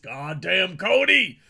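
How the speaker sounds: fist-shaking villain, rising to a shout; sputtering foiled villain. Pretend. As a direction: shake your fist and curse the name. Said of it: "he just shakes his fist".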